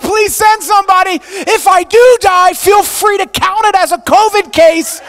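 high, loud panicked pleading; frantic yelling. Retold or imitated. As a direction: scream into the phone like you think you are about to die. Panicked call to 911.

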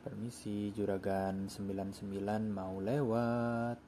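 slow, drawn-out excuse me; playful passing call. Pretend. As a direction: stretch the last word as you pass. Playfully announces his bus is overtaking. (minta jalan dengan nada santai dipanjangkan)

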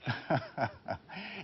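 real burst of amused laughter; soft, genuine chuckling fit. Real, not acted. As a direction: laugh helplessly at what you just watched. Amused by clip of emptied studio.

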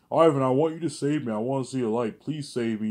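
a put-on plea to be saved; imitating V J pleading. Husband voicing his crying wife begging for rescue, mock pleading.

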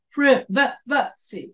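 PRI-V-CY in pieces, short first vowel; British pronunciation broken down. Shown as a demonstration. Teacher showing what Americans don't say, short-i PRI-V-CY in pieces. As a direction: chop it into "prih, vuh, vuh, see". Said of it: "We don't say".

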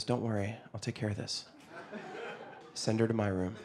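low, soft fatherly assurance; hushed, deadpan confidence; calm reassuring dad. Retold or imitated. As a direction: say it quietly and gravely. Dad calmly reassuring son, retold.

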